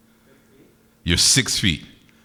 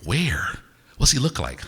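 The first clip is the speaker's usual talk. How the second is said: eager audience imitation; 6 semitones higher, 3 dB quieter, slower than usual. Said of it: "You'd be like".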